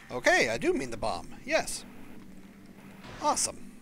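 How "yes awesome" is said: squeaky delighted yes; high excited squeal. Real, not acted. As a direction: squeal it with joy.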